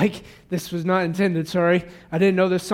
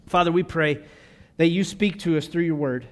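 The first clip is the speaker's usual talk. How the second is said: prayer; 2 semitones lower than usual. Acted. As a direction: hush and pray over the people. Pastor leads closing prayer.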